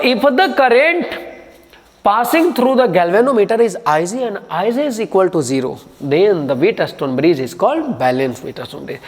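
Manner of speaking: slow, measured dictating pace; slow dictation. Shown as a demonstration. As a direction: dictate so they can write it down. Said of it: "क्या लिखेंगे आप?".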